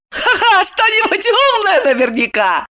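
mocking laugh. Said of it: "заржала Ева".

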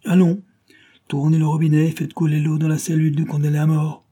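high, loud command; stern order. Acted. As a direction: order him to turn the tap. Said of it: "ordonna Thompson".

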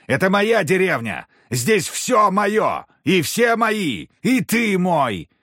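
hammed-up drunk noble ranting; drunken ranting. A narrator's reading. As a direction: bellow it as master of all. Drunk claims everything as his.

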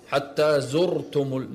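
زرتم slowly, with a full r; heavy Ra. Shown as a demonstration. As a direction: thicken the r in زرتم. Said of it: "الحكم في الراء التفخيم".

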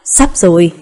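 low, tender murmur of an answer; gentle. A narrator's reading. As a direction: answer tenderly, dropping the pitch. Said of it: "anh dịu dàng nói".

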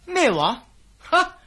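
sharp incredulous "what?", jumping high and loud; disbelieving outburst; surprised. Acted. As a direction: react as if he's joking. Partner makes an absurd claim.

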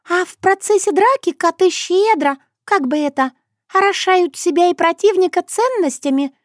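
a distinct high figure explaining; Shushana voice. Acted. Shushana telling Sokolovsky about the fight, high.

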